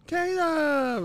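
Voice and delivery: put-on very high, loud child's yell; imitated piercing call-out; screaming. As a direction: shriek the name like an excited little kid. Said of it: "just screaming".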